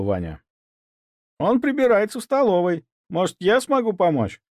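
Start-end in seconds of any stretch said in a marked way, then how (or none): 1.4-4.4 much higher, caring cook's voice; sympathetic cook. Acted. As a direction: offer help kindly as the cook. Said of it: "участливо спросила повариха". (участливая повариха, высоким голосом)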